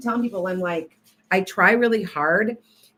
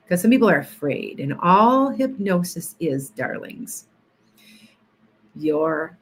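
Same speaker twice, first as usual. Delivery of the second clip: soothing hypnotist voice. Shown as a demonstration. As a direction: lull the viewers toward sleep. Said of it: "go back to my normal self".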